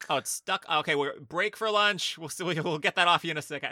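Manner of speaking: loud, offhand mock announcement; mock director on set. Imagined director calling lunch with kids stuck, mock breezy. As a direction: brush off the mishap loudly.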